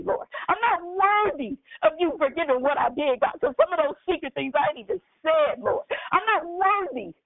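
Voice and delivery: earnest prayer, calling on God between phrases; fervent prayer. Acted. Pastor praying aloud before the congregation, fervent prayer. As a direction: pour it out to the Lord.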